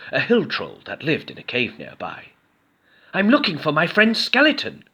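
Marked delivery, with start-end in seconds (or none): 3.1-4.8 high, louder earnest goblin. A narrator's reading. Goblin asking the troll, high earnest goblin. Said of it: "Goblin told him".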